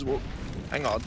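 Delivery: casual, lightly put-on Aussie accent for a player; a hint of an Australian accent, playing Skulls; mock Australian accent. Caster voicing player Skulls, mild mock Australian accent. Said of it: "Why is he Australian?".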